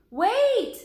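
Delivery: high, loud urgent shout; shouting wait. Acted. Jack shouts after Annie running ahead: loud urgent shout. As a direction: stop her before she runs off.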